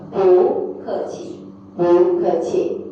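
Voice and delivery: slow, measured syllables; drawn-out teaching pronunciation; slow teacher model. Shown as a demonstration. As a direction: repeat it slowly for learners. Teacher models phrase twice.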